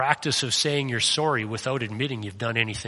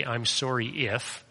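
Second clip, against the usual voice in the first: "sorry" slow and leaning, trailing off on "if"; slow, drawn out "I'm sorry if" as the bad example; wrong apology; slower than usual. Shown as a demonstration. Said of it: "Never say".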